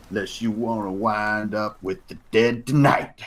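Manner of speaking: lightly voiced threatening stranger, slowing menace; yelling hostile stranger. Unseen stranger warns intruders in the dark, lightly voiced threat. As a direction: finish the warning with a touch of menace. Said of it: "and then a voice says".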